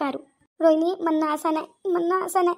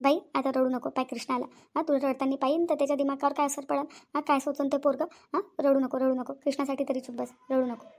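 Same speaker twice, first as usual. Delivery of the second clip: hushed; 3 semitones lower, 5 dB quieter than usual. Acted. Hushing crying wife before child.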